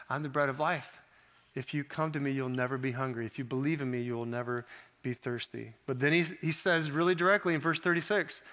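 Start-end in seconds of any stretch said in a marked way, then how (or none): 0.1-5.7 softer, lower, fading reassurance; a hushed, comforting reading; tender promise. Shown as a demonstration. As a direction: offer the promise gently to the listener. Jesus' promise read softly.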